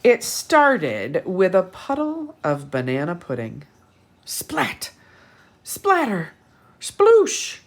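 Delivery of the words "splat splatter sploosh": higher, louder splashing words; rising, playful sound effects; splashy sound words. Acted. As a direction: make the spill sound wild.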